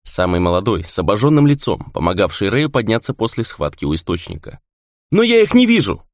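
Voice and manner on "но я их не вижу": high panicked cry; frightened, helpless. A narrator's reading. Young fighter facing invisible creatures, frightened cry. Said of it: "испуганный и беспомощный".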